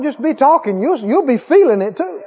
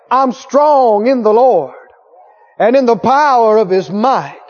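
strong loud confession. Retold or imitated. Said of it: "heard her across the road".

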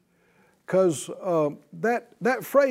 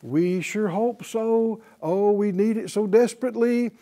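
mock wavering believer; 3 semitones higher than usual.

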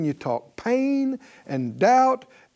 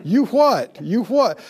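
mock self-rebuke; 4 semitones higher, 3 dB louder than usual. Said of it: "you're a faith person, you go".

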